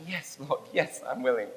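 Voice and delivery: soft, understated yes to God; tearful assent, retold. Rob answers Jesus that he is willing, understated tearful assent. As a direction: quietly give in, only a touch of tears. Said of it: "they said with tears".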